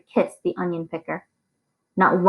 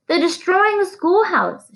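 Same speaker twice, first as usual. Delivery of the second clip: high, slow and breathless with panic; gasping for breath; 12 semitones higher, slower than usual. A narrator's reading. Teacher gasping to the sheriff about the burning school, breathless and high. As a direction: gasp out the alarm between breaths. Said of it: "gasping for breath".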